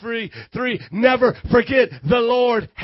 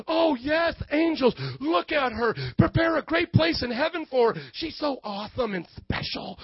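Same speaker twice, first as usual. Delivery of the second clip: mock gushing; 3 semitones higher, 5 dB quieter than usual. Preacher voices God praising her to angels, mock gushing. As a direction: coo as if over someone precious.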